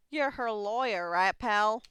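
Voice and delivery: lightly Southern detective; Southern accent. Acted. Detective to the lawyer about his business here, Southern accent. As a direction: give the detective a folksy Southern twang. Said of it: "I don't know why he has a southern accent".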